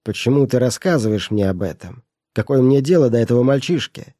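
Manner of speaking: irritated. Acted. Miser snaps back.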